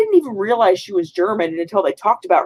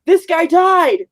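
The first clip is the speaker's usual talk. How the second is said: much higher, slow, flat-affect mockery; mock deadpan; 10 semitones higher, 4 dB louder, much slower than usual. Mocking the movie characters' flat reaction, slow and high. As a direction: say it slowly, as if a death means nothing. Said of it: "everyone in the movie is just like".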